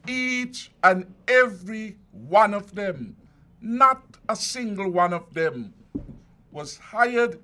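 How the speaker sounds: forceful podium rebuttal, words drawn out; emphatic denial. Real, not acted. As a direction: hammer home that none were his hires. Politician rebutting nepotism claims.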